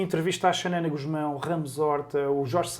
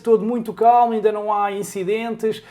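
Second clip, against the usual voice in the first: louder live radio correspondent voice; 4 semitones higher, 5 dB louder than usual. Retold or imitated. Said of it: "aquela voz daquela maneira que eles falam".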